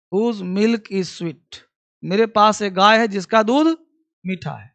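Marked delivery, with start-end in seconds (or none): 0.1-1.6 I have a cow stretched out, word by word; very slow model reading. Shown as a demonstration. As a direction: dictate it slowly to the class. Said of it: "teacher models an example slowly". (धीरे-धीरे बोलकर लिखवाना)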